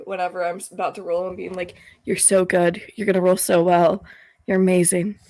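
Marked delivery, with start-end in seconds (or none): 2.1-5.2 close-mic cooing to dice; sweet nothings. Pretend. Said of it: "whisper sweet nothings into your dice".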